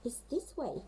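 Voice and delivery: call from afar. Acted. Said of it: "called the snow petrel".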